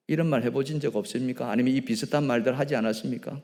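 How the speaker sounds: ordinary talk, nothing marked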